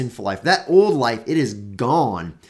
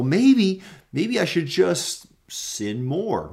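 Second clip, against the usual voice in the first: mock sinner's excuse; 6 semitones higher, slower than usual. Preacher voicing an imagined believer's excuse, mild mock. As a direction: play the sinner half-heartedly talking himself into it. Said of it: "rhetorical question here that is".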